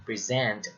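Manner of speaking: "present" as pree-ZENT; light first syllable, strong ZENT in "present"; second-syllable stress. Shown as a demonstration. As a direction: stress the end of "present", as the verb. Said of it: "as verb".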